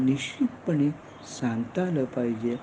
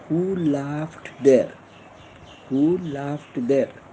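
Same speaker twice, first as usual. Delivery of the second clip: very slow, each word stretched; slow model question; much slower than usual. Shown as a demonstration. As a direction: dictate it for the class to repeat. Teacher models English question. (शिक्षक वर्गाला प्रश्न शिकवतो, अतिशय हळू)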